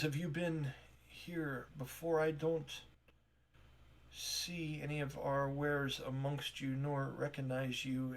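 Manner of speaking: flustered shopkeeper. Acted. Tamara apologizing to strangers, softly flustered. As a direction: stumble politely, a little embarrassed.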